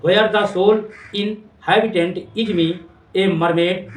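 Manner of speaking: very slow, dreamy reading of the line; slow poem reading. Shown as a demonstration. Teacher reading Amanda's daydream to students, slow. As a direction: linger on each word of the poem. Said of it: "सोचती है".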